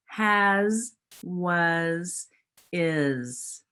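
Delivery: teacher stretching each final z; modelled sounds. Shown as a demonstration. Teacher modelling word endings for first graders, careful z at the end. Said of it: "What sound do you hear at the end".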